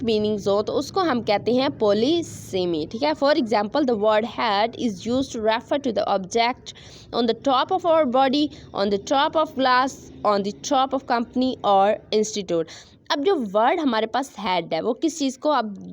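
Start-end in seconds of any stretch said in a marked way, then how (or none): 3.1-12.6 very slow, word by word, for students to write; slow dictation. Shown as a demonstration. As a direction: read the definition out slowly like dictation. Teacher dictates example sentence. (धीमी आवाज़ में dictation)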